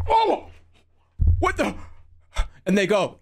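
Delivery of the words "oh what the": mock surprise. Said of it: "somebody like".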